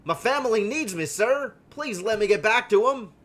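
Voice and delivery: desperate worker asking to leave; pleading father. Pretend. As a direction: beg the boss to let you go home. Pleading father voiced in game.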